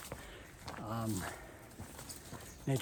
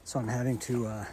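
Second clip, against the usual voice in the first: huffing and puffing on a climb; out of breath; 4 dB quieter than usual. Real, not acted. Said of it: "I'm huffing and puffing right now".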